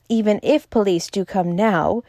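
ordinary delivery

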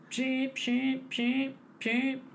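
high chirpy cartoon bird cheeps. Mimicking robot bartender sound.

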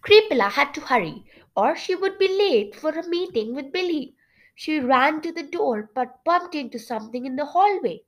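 lively storybook reading with lifted pitch; story narration. A narrator's reading. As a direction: read the tale aloud expressively. Reads story narration aloud.

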